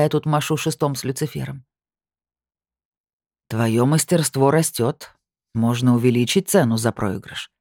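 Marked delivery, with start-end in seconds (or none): 3.5-7.5 predatory grin. Acted. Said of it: "Хищно осклабился он".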